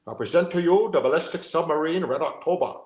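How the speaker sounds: a hint of a Scottish burr, grand announcing; Sean Connery Scottish accent. A lightly voiced Sean Connery Scottish accent for the host. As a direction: present it like Connery's captain. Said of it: "my Scottish accent".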